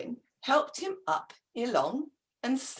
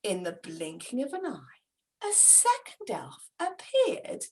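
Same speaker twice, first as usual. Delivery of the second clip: whispering; 5 semitones lower, 7 dB quieter than usual. A narrator's reading. Narrator whispers magical entrance.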